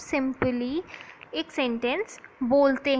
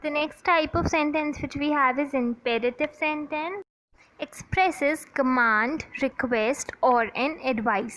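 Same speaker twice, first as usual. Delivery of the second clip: slow, deliberate dictation pace; much slower than usual. Acted. Teacher dictating a definition to her class, slow and deliberate. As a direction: spell it out slowly for students to copy.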